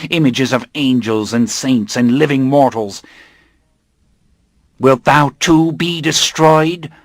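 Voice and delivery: menacing coven leader. Acted. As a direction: pronounce doom on the captive. Coven leader judging Armand.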